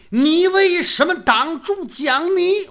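angry demand. Acted. Angry rival demands an answer.

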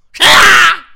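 very high loud yell; shouted question. Acted. Brother shouts back who he is, very high and loud. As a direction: bark out the question.

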